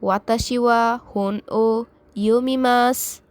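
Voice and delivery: "ইয়োমিমাস" with the final su barely voiced, almost "mas"; devoiced final su. Shown as a demonstration. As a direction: clip the su at the end of "ইয়োমিমাস" to a whisper. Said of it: "অর্থাৎ উচ্চারণটা হবে".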